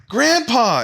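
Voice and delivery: high, loud cry of delight; excited greeting. Acted. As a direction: call out as the delighted granddaughter. Granddaughter rushes to greet grandfather.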